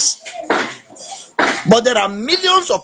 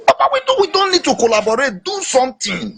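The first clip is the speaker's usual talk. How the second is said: exasperated cry; 6 semitones higher than usual. Real, not acted. Exasperated appeal to the president.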